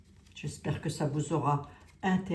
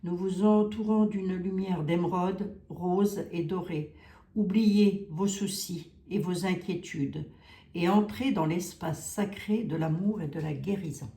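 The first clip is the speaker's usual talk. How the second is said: angel card reading. Acted. Vlogger reads the guardian angels' message to viewers, solemn.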